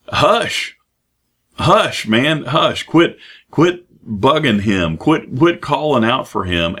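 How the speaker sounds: high, sharp hushing of the crowd; shushing crowd. Acted. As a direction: hush him like an annoyed bystander. People hushing the blind man.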